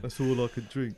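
lightly put-on Cockney; Cockney accent. Customer explains his order to the landlord, mock Cockney accent. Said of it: "my cider accent is, is a Cockney one".

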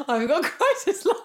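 high-pitched, silly hotline advert voice; sing-song parody of a phone-number advert; mock advert jingle. Joking to the co-host about a crisis line, mock advert jingle.

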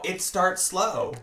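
slow, deliberate warning; slow ominous. Pretend. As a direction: draw it out like a warning. Ominous warning repeated slowly.

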